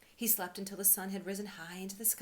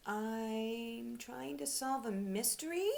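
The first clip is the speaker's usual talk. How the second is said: higher and slow, bright and eager; a cheerful small bear explaining; lightly voiced happy teddy bear; happy little teddy; 6 semitones higher, 4 dB louder, much slower than usual. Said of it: "smiling happily".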